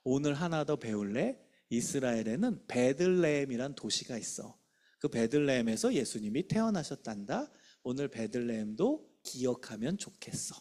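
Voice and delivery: soft, acted explanation for a pupil; gentle teaching. Shown as a demonstration. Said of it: "배움으로 마무리하면 돼요".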